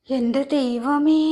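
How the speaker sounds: very slow, drawn-out exclamation; shocked dismay. Acted. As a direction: stretch it out in disbelief at the gossip. Listener shocked by neighbour's gossip. (ഞെട്ടലോടെ നീട്ടി പറയുന്നു)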